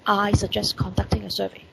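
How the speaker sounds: hushed demo of the plain version; whispered example. Shown as a demonstration. Teacher whispering the informal wording to students. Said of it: "for normal sentences".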